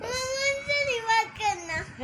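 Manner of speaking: tearful, slow pleading through sobs. Real, not acted. Little girl begging her mother not to see the principal, crying. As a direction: beg mama not to go, still crying. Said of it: "ये मरियम रो रही है".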